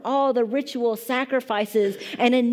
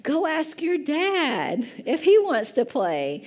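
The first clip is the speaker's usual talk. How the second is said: deflecting mom; 6 semitones higher, slower than usual. Retold or imitated. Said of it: "what do I say? Like".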